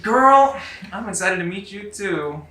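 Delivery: lightly voiced villain feigning excitement; thin voice. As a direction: pitch it up for a phone villain. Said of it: "you hear a thin voice in your ear".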